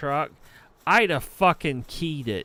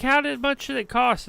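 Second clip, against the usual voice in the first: imitated landlady; 8 semitones higher, faster than usual. Quoting landlady asking the cost.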